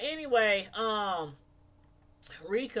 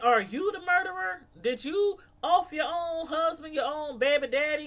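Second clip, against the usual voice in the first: higher, accusatory questioning; mocking the agent's suspicion; accusing agent; 4 semitones higher than usual. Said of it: "he thinking".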